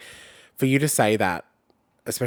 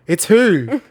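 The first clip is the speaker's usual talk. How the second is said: laughing mock confusion; 9 semitones higher, 7 dB louder than usual.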